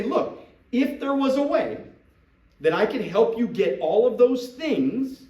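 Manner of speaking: IF lifted high and punched; careful, earnest pitch leaning on IF; sincere, stressed IF. Shown as a demonstration. Recruiter being transparent with a prospect, IF stressed. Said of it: "I wanna be truthful and I wanna be transparent".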